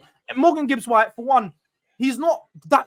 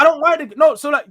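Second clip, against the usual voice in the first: louder, higher insistence; raised voice defending himself; defensive burst; 5 semitones higher, 6 dB louder than usual. Real, not acted. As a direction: push back hard.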